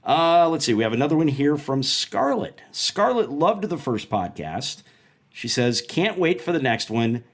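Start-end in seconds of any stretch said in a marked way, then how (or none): 5.8-7.2 mock Long Island accent, drawn out slowly; a hammed-up Long Island read of the fan's greeting; lightly done Long Island accent; terrible Long Island accent. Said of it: "That's my terrible Long Island accent".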